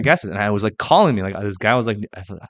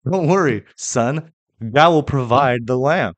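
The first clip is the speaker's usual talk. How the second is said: reassuring father; 5 semitones higher, 6 dB louder than usual. Retold or imitated. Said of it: "He's like".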